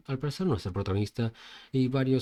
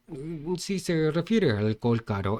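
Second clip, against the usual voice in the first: nervous waiter; 5 semitones higher than usual. Acted. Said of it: "un poco nervioso".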